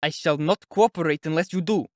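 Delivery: indignant and pushed, just short of shouting; irritated, near shout. A narrator's reading. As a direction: lay down an exasperated ultimatum. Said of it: "he almost shouted".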